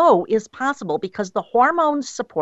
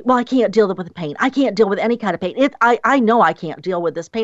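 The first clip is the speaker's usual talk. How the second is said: quick, insistent quoted worry; rushed protest; faster than usual. Retold or imitated. Imitating women before labour saying they can't cope, rushed protest. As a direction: rattle it off as an imitated complaint.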